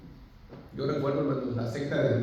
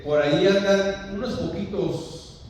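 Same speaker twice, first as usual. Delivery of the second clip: higher, louder, drawn-out "unos poquitos"; mock misquote; 5 semitones higher, 5 dB louder than usual. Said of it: "¿Qué dice, hermano? ¿Que andan unos poquitos?".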